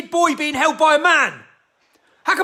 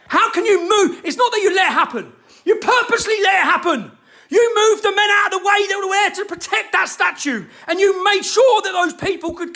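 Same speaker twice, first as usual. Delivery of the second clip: raised, heated shouting rant; getting angry; 4 semitones higher than usual. Real, not acted. Ranting at the police over the statue, angry shouting. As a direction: let real anger boil over into shouts. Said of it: "I'm getting so fucking angry".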